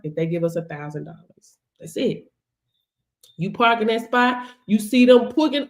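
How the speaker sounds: ordinary delivery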